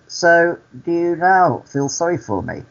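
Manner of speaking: high-pitched retold challenge; acted pointed question. Storyteller replays turning the pity back, pointed question. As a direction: lift the pitch to drive the point home.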